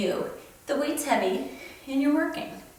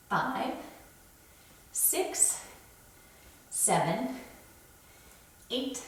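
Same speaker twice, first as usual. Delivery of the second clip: soft counts squeezed out mid-lift; effortful counting between heavy pulls; straining rep count; 9 dB quieter, much slower than usual. Real, not acted. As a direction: count each rep softer under the effort. Counting reps with weaker arm.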